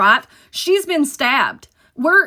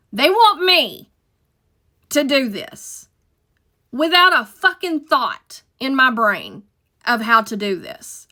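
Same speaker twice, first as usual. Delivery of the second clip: panicked disbelief; 3 semitones higher, 3 dB louder, slower than usual. Retold or imitated. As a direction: spell out each panicked thought slowly. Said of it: "I'm like".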